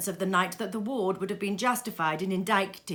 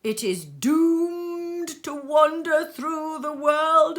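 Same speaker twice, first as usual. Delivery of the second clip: high, loud mournful ghost voice; lamenting ghost; 6 semitones higher, 6 dB louder than usual. Acted. Ghost telling Scrooge its fate, high loud lament. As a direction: wail out your doom.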